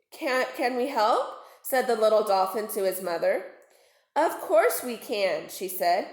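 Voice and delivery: put-on lively read-aloud for children; story narration. A narrator's reading. Teacher reading a twisted fairy tale aloud to pupils, storyteller voice. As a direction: tell it like a bedtime story to kids.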